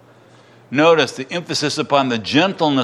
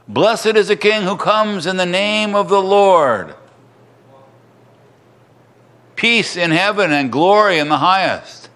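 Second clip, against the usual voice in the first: lightly raised acclamation, pitched up at the start; joyful praise; 4 semitones higher than usual. A narrator's reading. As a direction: read it as a crowd's praise, without shouting. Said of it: "to praise God in loud voices".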